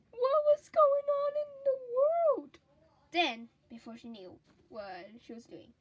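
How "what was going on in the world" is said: excited question. Acted. Shrill rising question.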